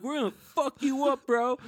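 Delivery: high, loud retold threat; mock threatening kids.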